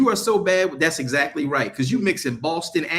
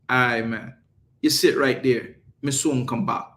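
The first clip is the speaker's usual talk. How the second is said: put-on light Jamaican accent. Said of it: "when you hear a Jamaican say".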